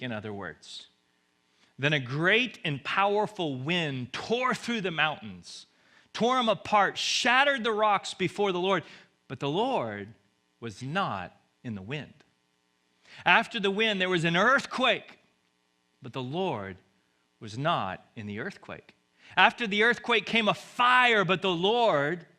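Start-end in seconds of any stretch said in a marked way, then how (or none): 1.8-8.8 louder, building force as the wind tears through; dramatic loud reading. Acted. Preacher reading the wind scene, loud and dramatic. 13.2-15.2 louder and higher, forceful; dramatic loud reading. Acted. Preacher narrating the earthquake, loud and higher. 19.4-22.3 higher and louder, ringing out; dramatic loud reading. Acted. Preacher narrating the fire, loud and high.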